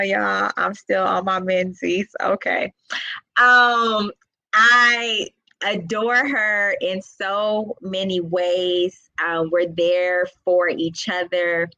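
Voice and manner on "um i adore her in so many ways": tearful. Real, not acted. Talking about her soulmate Jasmine, fighting back tears. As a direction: voice catching as tears rise. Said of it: "Oh, I'm gonna get emotional".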